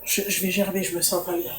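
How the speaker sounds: soft, queasy voice; barely holding back nausea; nauseous. Real, not acted. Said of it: "c'est la nausée".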